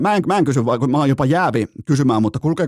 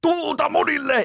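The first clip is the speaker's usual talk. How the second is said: very high, slow mock yell; screamed war cry; 14 semitones higher than usual. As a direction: shriek it like a fired-up dad. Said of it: "niin huutaa suomeksi".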